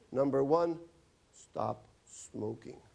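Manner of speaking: dictating orders to the patient, slowly; slow prescription. Acted. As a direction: spell out each word like writing a prescription. Writing the prescription out loud.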